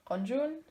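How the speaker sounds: Renjun with an open O-like first vowel; O-sound pronunciation. Shown as a demonstration. Fan naming a favorite member, Renjun said with an O sound. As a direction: say Renjun as if spelt "Ronjun". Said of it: "it's pronounced like an O".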